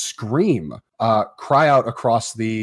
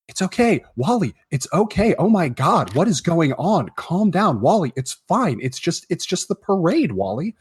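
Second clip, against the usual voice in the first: higher-pitched, exasperated soothing mom; flustered mom calming child; 6 semitones higher than usual. Acted. Mom to screaming little Wally at the parade, flustered soothing. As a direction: try to hush a hysterical child, voice raised in pitch. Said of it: "his mom's like".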